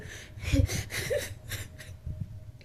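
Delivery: breathy voiceless sobbing; channelled crying. Acted. Medium crying for the spirit she channels, breathy sobbing. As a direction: sob without words. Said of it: "He's crying now, too".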